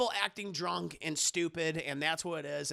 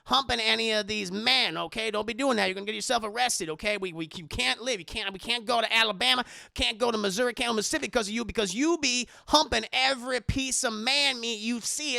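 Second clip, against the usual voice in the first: retold scolding; 3 semitones higher, 4 dB louder than usual. Madea scolding Hattie.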